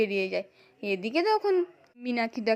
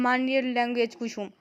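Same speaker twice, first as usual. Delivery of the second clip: firm, louder rebuke to his wife; a husband sternly warning his wife, louder; angry scolding; 4 dB louder than usual. Retold or imitated. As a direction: scold her, voice rising in anger. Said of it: "রেগে গিয়ে বলছে".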